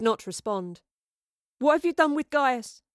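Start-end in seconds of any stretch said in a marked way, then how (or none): 1.6-2.8 raised, louder accusing question; demanding. A narrator's reading. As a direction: demand an answer from her. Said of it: "she demanded".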